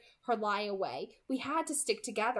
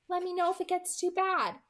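Alice's voice; 9 semitones higher than usual. Acted. Alice telling Edward to warn her, higher voice. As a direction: offer help, sisterly.

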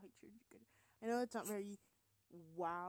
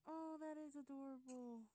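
slow, drawn-out aww; cooing; 3 semitones higher, 4 dB quieter than usual. Real, not acted. Gamer watching her sim child over the bed, cooing. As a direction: melt softly over something cute.

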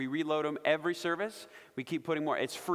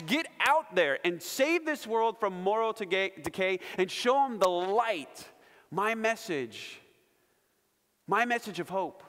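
raised, emphatic commissioning voice; Christ commissioning followers; 3 semitones higher than usual. Acted. Preacher voices Christ sending followers to rescue the world, impassioned. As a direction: urge them out with impassioned emphasis. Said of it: "Christ is saying to his followers".

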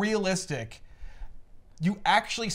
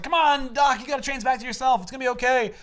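1 pleading Spider-Man; 6 semitones higher, faster than usual. Retold or imitated.

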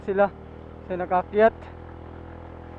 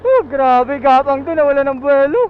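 straining uphill; 4 semitones higher, 7 dB louder than usual. Real, not acted. Struggling motorbike up steep slope.

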